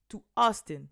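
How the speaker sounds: "Austin" with no H sound, starting straight on the vowel; Austin without H. Shown as a demonstration. Correcting herself to fans, "Austin" said without an H. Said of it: "il n'y a pas de H".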